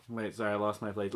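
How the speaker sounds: ordinary delivery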